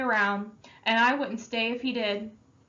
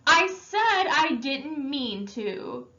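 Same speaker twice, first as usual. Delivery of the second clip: slow, higher, loud frustrated protest; tearful anger; 6 semitones higher, 4 dB louder, much slower than usual. Acted. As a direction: force it out through angry tears. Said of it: "hot tears of anger and frustration".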